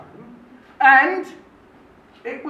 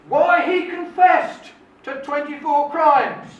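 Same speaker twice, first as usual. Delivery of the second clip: loud, slow, deliberate headline reading; 3 semitones higher, 5 dB louder than usual. Retold or imitated. Man reads out the news headline about his own confession, announcing it. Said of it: "And the headline news read".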